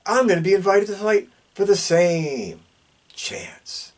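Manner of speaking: slurred speech; words slurring together. Real, not acted. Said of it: "I'm slurring over my words".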